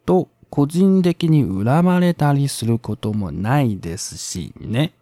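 calm Japanese essay reading; reading aloud. Acted. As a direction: read the passage aloud evenly.

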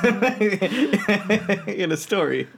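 words squeezed out through a laugh. Real, not acted. Laughing while talking.

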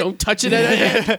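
high mock scolding of a pet; scolding a cat. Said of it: "Explaining cooking to Adam".

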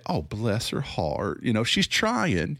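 slow pitying grandma, rising on "trying"; a sweetly patronising grandma voice; Southern grandma. Retold or imitated. Critic voices a Southern grandma pitying someone, slow and sweet. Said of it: "they're gonna say".

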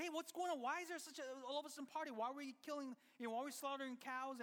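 mock outrage at the party; a lightly voiced upset older son; indignant elder son. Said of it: "he's like".

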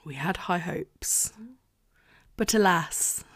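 mock-sad whisper about the book; whispered lament. Real, not acted. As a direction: sigh it out under your breath.

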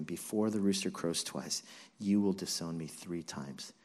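low, softened recollection; hushed, heavy echo of a warning; somber remembered words. Acted. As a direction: recall the prophecy quietly, as it sinks in. Peter remembers Jesus' words, grieved.

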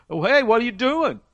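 high, surprised owner calling out; a lightly voiced startled owner; owner's challenge. Owner confronts disciples taking foal.

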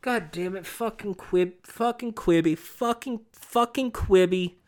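soft, exasperated swearing under the breath; muttered cursing. Real, not acted. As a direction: grumble the curses to yourself. Muttered cursing about Quibi.

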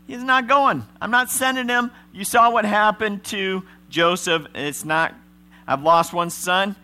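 high, loud refusal; stubborn Jacob. Retold or imitated. Jacob refusing to send Ben, high and loud. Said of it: "Jacob says".

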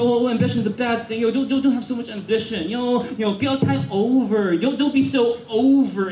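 quick, fussy mock objection; dismissive naysayers. People warning against too much ambition, quick mock nagging. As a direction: rattle off a naysayer's nagging advice. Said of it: "And a lot of people".

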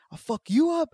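high, loud repeated threat; imitated threats. Neighbour threatening dad and son, high loud yelling. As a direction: hammer the threat over and over. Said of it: "he's just yelling shit".

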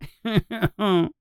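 high cruel cackle; mean laugh. Acted. Bully laughing at his own taunt, cruel cackle. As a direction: cackle at your own meanness. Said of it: "He laughs at his own meanness".

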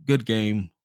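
ordinary talk

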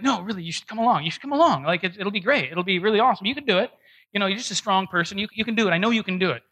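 mock pep talk from a pushy pal; coaxing friend. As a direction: talk them into it, quick and insistent. Friend coaxing him along, retold.

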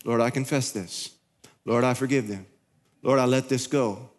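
a gentle, low prayer; humble prayer. Retold or imitated. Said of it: "I empty the bucket".

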